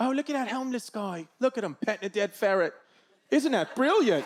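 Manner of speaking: put-on British accent. Imitating a British person praising a strange street scene: imitating a British accent. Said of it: "But over there".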